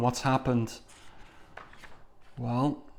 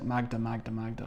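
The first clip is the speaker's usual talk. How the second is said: fading calls; 7 dB quieter than usual. Acted. Calling his fleeing wife.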